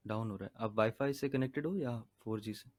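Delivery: choppy audio cutting in and out; faint, breaking video call; call dropping out. Real, not acted. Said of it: "आवाज cut रही है".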